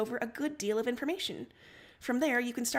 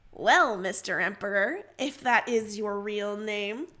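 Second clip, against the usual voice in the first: slow, louder mock-formal tease; Roxy ribbing the Emperor with a grin; grinning teasing Roxy; 5 dB louder, slower than usual. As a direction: play up the grand title with a grin. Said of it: "Roxy grins".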